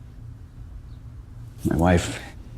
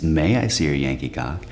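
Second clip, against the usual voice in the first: put-on correcting British accent; 4 semitones lower than usual. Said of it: "Whoa, whoa, whoa".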